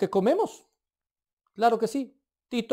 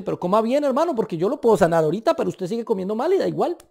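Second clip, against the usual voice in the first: lightly voiced Colombian God, fast and louder; a hint of a Colombian scolding a brother, quick; God talking like a Colombian, brisk and fond; 3 semitones higher, 5 dB louder, faster than usual. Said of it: "pongo a Dios a hablar como colombiano".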